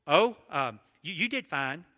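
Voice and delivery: imitating a wife stalling before faint praise; halting, unconvinced reassurance; hesitant, reluctant praise. Wife dodging her husband's question, imitated as hesitant, reluctant praise. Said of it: "her tone of voice indicated to me, fine does not mean fine".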